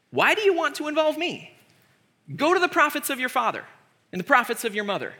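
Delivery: lightly mocking brush-off; Elisha, mocking. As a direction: send them away with a touch of scorn. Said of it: "Elisha mocks the three kings".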